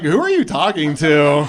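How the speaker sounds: loud, demanding question; acted wife butting in on a phone call; suspicious wife.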